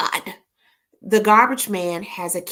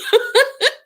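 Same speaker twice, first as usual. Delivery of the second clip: high laugh. Real, not acted. Laughing at her own request.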